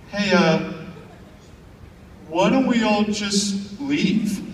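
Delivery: slow, offhand suggestion; the one sensible guy, drawn out slowly; casual guy in back. Retold or imitated. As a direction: calmly point out the obvious.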